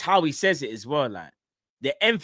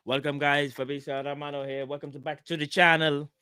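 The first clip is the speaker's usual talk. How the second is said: Fabrizio Romano impression; 2 semitones lower, 5 dB quieter than usual. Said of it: "I can't do the accent".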